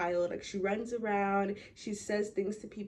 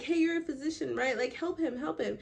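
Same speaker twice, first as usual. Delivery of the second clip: urgent townsfolk; 6 semitones higher than usual. Retold or imitated. Townspeople plead with Chillingsworth.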